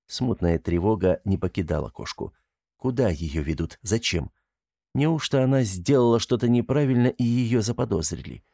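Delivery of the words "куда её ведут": ordinary delivery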